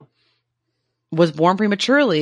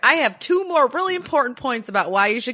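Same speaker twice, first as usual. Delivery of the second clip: laughing; 6 semitones higher than usual. Real, not acted. Laughing protest to cohost.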